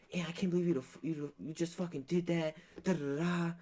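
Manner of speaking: high, exasperated mock scold; scolding mom. Mom scolding her son mid-fight, high and exasperated. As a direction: nag like a fed-up mom.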